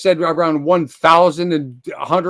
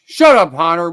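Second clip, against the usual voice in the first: snapping shut up; 7 dB louder than usual. Real, not acted. Streamer telling a chatter Hunter to shut up, loud snap. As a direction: cut him off hard.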